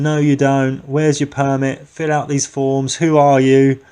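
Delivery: slow, mock-stern demands; officious refusal. Imitating emails refusing his Antarctica trip, mock-officious. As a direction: fire off demands like an imitated gatekeeper.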